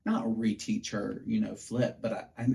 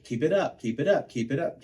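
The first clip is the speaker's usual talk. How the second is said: higher, louder coaching calls; coach calling out; 5 semitones higher, 5 dB louder than usual. Retold or imitated. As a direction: urge her on from the sideline, pushing. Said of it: "I'd be like".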